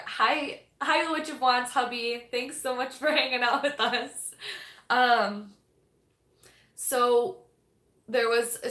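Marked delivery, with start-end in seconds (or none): 0.1-4.4 mock-nice hostess greeting her husband; sweet polite greeting. A hint of saccharine politeness toward the author's husband. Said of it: "being critical or".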